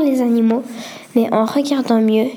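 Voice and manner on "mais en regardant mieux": ordinary delivery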